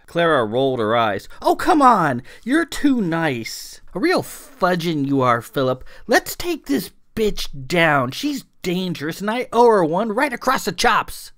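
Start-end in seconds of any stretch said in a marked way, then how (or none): 1.4-11.3 much higher and louder, fed-up rant; exasperated shout. A narrator's reading. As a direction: push back hard and loud at the nice guy. Clara complaining, impatient, to Philip.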